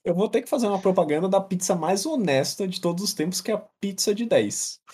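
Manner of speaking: stiff robotic ad read. Pretend. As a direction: deliver it like a programmed robot. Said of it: "como eu sou um robô".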